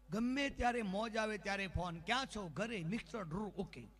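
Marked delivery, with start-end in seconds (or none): 2.0-3.9 soft recital sinking in pitch; weary routine. Retold or imitated. Husband's phone check for the umpteenth time, soft weary recital. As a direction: let the routine tail away softly. Same routine summed up, dropping away.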